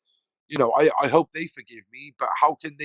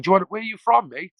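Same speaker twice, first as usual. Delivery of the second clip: retelling Pricey; 9 semitones higher, 5 dB louder than usual. Retold or imitated. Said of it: "he said".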